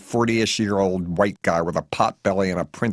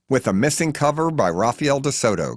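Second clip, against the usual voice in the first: enthusiastic yell; 5 semitones higher than usual. Acted. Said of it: "Cash yells back with postmodern literary enthusiasm".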